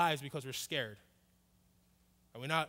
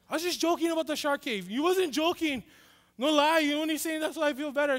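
high, loud, worked-up squabble; acted panicky arguing; 9 semitones higher, 7 dB louder than usual. Kid and cousin argue over shark cave, acted panic. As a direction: argue back in a mock panic.

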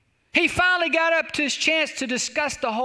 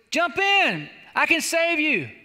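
mild acted shout, pitch lifted; storyteller's raised rescuer call; 5 semitones higher, 3 dB louder, slower than usual. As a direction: call up to someone on a roof. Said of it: "the fella shouted up to the man".

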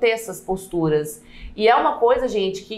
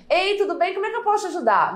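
higher, fast, eager little voice; fragile, girlish voice; 10 semitones higher, faster than usual. Shown as a demonstration. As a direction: sound timid and small, head tilted. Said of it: "Olha como é que eu pareço mais frágil". (voz frágil e boba, mais aguda e rápida)

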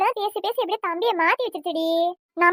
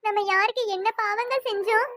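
anguished, plaintive pleading; tearful lament; 2 semitones higher than usual. Acted. Mother bewailing her children's hardships to her husband, tearful. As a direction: lament your children's suffering through tears. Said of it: "எல்லாம் அழுது என்னமா பண்றது".

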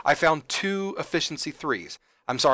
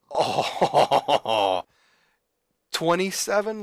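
1 excited gasp; 4 semitones higher, 6 dB louder, much slower than usual. Real, not acted. Big loot result on screen.

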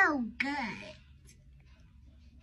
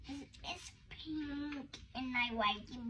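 whispering; 9 dB quieter than usual. Real, not acted. Whispers after getting in trouble.

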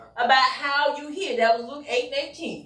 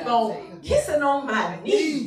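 mock voice of the Lord. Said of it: "the Lord saying".

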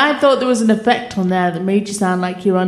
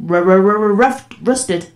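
helium voice. Real, not acted. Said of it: "it sounds like I'm on helium".

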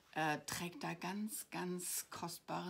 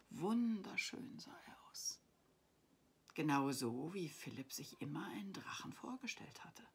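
expressive storybook reading; story narration. A narrator's reading. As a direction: read a bedtime adventure aloud, lingering on key words. Reads her story aloud.

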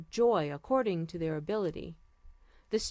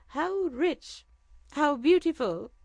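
higher, louder delighted gasp; amazed; 8 semitones higher, 6 dB louder, slower than usual. Acted. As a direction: marvel at the jewels. Sultan marvels at jewels.

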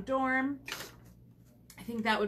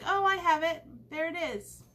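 excited; 7 semitones higher than usual. Retold or imitated. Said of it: "I'm like".

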